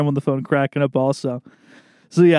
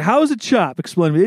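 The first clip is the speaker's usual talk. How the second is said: higher-pitched puzzled demand; mock questioning; 4 semitones higher than usual. Listener challenging the chop verdict, mock baffled. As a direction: ask it baffled, pitch lifted.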